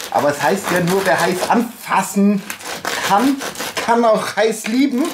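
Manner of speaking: joking through the pain; cheeky. Real, not acted. Cheeky saying while in pain.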